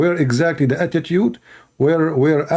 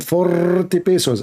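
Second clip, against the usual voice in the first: put-on Filipino accent; 2 semitones higher, slower than usual. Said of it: "the way they say it in the Philippines".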